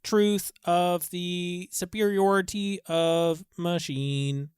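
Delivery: flat machine monotone; robot voice. Acted. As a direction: preach machine superiority coldly. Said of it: "Why are you a robot right now?".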